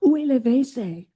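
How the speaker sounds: a lightly put-on French Où est le W C; practicing French. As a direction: ask Où est le W C like a tourist practicing. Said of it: "I'm practicing my French".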